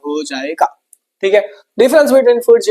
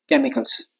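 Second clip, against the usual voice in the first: ordinary delivery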